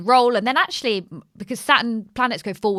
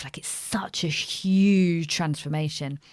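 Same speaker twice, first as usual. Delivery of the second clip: whisper; slower than usual. Real, not acted. Whispering to her podcast host. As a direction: breathe it out as a secret. Hushed aside about transformation.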